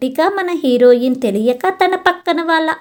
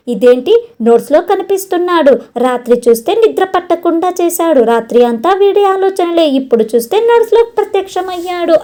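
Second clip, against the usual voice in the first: higher and fast, rising panic; girl panicking over the boy haunting her notes; frantic shouting; 5 semitones higher than usual. Acted. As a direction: rattle it off in mounting alarm. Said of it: "అని ఇంకా గట్టిగా అరుస్తుంది".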